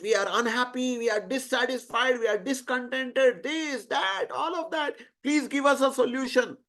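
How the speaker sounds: lightly acted litany of grievances, pitch climbing; poured-out complaint. Humans bring their grievances to Brahma, pouring out complaints. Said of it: "they quickly poured out".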